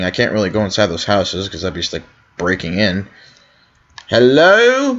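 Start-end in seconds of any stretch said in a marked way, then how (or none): 4.1-4.9 high hello rising like a question; searching, questioning call. Pretend. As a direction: call out hello in your own accent. Calls out before trying an accent.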